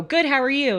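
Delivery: automatic polite reply. Acted. Customer answering the cashier without meaning it, lightly acted perky reply. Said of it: "And you'll go".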